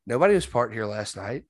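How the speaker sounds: quoting Addison's wife. Retold or imitated. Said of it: "And she's like".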